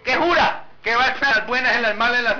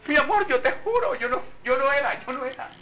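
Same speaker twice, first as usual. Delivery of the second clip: lying partner; 5 semitones higher than usual. Acted. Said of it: "también le pasa a los grandes".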